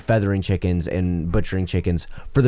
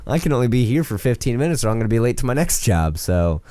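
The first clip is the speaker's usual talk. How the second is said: rude rant; 5 semitones higher than usual. Retold or imitated. Pest guy ranting at late customer, angry mock rant. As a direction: play a rude worker blowing up.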